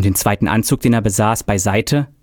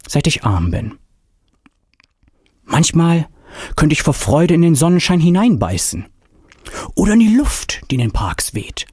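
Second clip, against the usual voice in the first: rising joy; 4 semitones higher than usual. A narrator's reading. Old man confesses joy of life.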